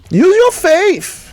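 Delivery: high, slow, hammed-up Brazilian Portuguese accent. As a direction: stretch it out like a Brazilian pastor. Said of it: "in a Portuguese or Brazilian accent".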